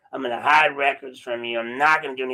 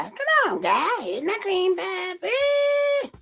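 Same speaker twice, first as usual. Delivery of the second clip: squeaky mock voice; much slower than usual. Shown as a demonstration. Mocking the sheriff's line in a far higher squeak. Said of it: "plain take before".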